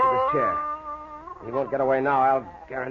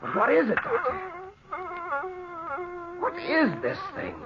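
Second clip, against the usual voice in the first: awed terrified whisper-cry; horrified wonder; 5 dB quieter than usual. Acted. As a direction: ask in dread what you're holding. Ned confronts the invisible thing.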